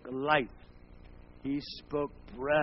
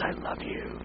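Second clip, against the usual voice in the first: voicing God gently; slower than usual. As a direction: whisper it tenderly as God. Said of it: "God says".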